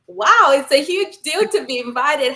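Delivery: awed retelling of her own reaction; excited. Retold or imitated. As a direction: replay the thrill of being invited. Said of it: "So I was like".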